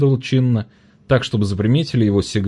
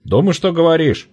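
angry trader; 9 semitones higher, 3 dB louder than usual. A narrator's reading. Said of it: "ярилась Маня Крановухая".

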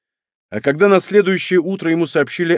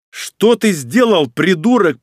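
loud, high and slow; raised voice; 6 semitones higher, 4 dB louder, slower than usual. A narrator's reading. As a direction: raise your voice at your brother. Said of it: "повысил Аурелио голос".

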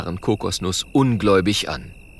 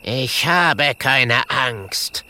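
slow, cutting ghost reply; 4 semitones higher, 3 dB louder, much slower than usual. Acted. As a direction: slice each word slowly. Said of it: "mit schneidender Stimme".

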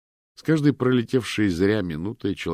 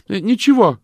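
much higher, much louder shout; shouting back; 15 dB louder than usual. A narrator's reading. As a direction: call back to him quickly. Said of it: "крикнула ему в ответ".

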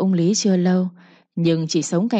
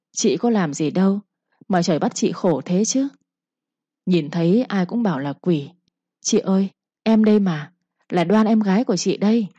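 sweet coaxing voice. Acted. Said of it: "cái giọng bà mới ngọt làm sao".

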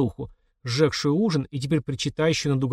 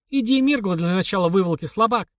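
taunting; 6 semitones higher than usual. A narrator's reading. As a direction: goad the weakling. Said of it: "продолжал насмехаться мама".

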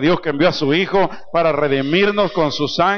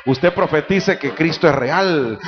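slow exhortation; slower than usual. Acted. Preacher exhorting congregation slowly.

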